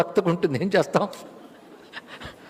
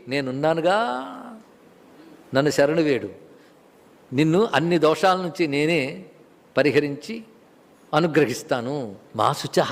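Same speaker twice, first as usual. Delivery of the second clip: lower-pitched, measured reassurance with long pauses; lightly acted promise of protection, unhurried phrases; Krishna; 4 semitones lower than usual. Krishna promising Arjuna refuge at the end, calmly reassuring. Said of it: "చిట్ట చివరికి".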